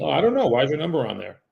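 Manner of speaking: high, innocent fake cluelessness; playing silly. Caller playing dumb with the angry agent, high and innocent. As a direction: act dumb, sing-song and surprised. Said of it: "so then I play silly".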